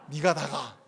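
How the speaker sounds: lightly voiced Gyeongsang question; 경상도 사투리로; Gyeongsang dialect. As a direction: say it in a Gyeongsang accent. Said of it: "경상도 이렇게 할 수 있겠네요".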